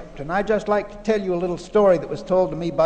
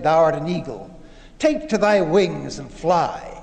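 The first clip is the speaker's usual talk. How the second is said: storyteller's grave, slowing proclamation; solemn command; 2 semitones lower than usual. Retold or imitated. Salesman commands the eagle to fly, solemnly. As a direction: proclaim it as an acted, measured exhortation.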